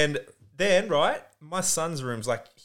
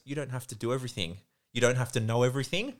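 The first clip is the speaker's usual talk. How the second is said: guiding voice. Retold or imitated. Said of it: "it spoke through me and goes".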